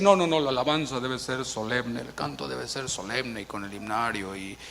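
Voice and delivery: mock solemn critic. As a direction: parody a stiff churchgoer who frowns on joy. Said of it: "algunos han caído de decir".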